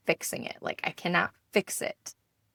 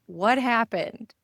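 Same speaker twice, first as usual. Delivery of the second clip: alarmed parent; 4 semitones higher, 5 dB louder, slower than usual. Retold or imitated. Parent retells questioning upset kids.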